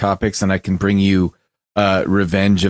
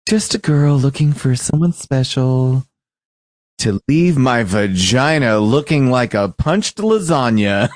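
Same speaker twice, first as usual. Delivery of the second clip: lightly voiced girlish read; a hint of a girly voice; man doing a woman's voice; 3 semitones higher than usual. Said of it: "You should definitely read it in a girl's voice".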